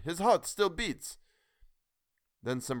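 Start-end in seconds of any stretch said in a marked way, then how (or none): 0.0-1.2 much higher, loud and slow; high, drawn-out glad shout; cried out. A narrator's reading. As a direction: cry it out in relief. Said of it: "he cried".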